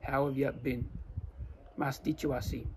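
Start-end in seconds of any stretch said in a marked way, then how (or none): 0.1-0.9 reduced Australian "how've ya bin"; casual Australian greeting, "you" weakened to "ya"; Australian accent. Shown as a demonstration. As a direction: run it together like an Aussie. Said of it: "con nuestro acento".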